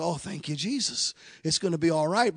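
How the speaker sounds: whisper-soft gratitude to Jesus; relieved thanks. Retold or imitated. Husband thanking Jesus after the doctors' news, softly.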